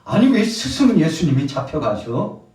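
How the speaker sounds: high, loud acted disbelief; bewildered protest. Disciples alarmed at their teacher's arrest, bewildered. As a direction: protest as if it cannot be happening. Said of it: "두려워가지고요".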